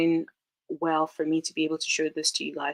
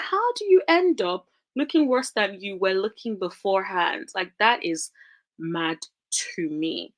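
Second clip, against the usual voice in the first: ordinary talk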